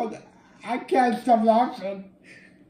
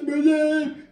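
playful shout; 6 semitones higher, 3 dB louder than usual. Pretend. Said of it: "Oh, I do this".

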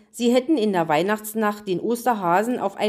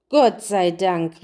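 relieved; 3 dB louder, slower than usual. Acted. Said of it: "rief die Königin".

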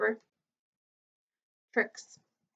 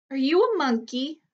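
small clear voice; 4 semitones higher than usual. A narrator's reading. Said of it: "small, clear voice".

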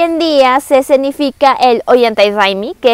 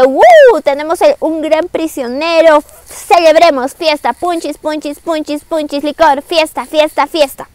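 celebración actuada; 4 semitones higher than usual. Acted. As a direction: play a crowd starting a party, then chant it lightly. Todos celebran al prisionero. (festejo fingido, con grito inicial agudo)

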